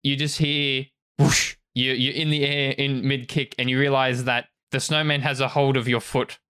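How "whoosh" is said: imitated whoosh. Imitating a sound in narration.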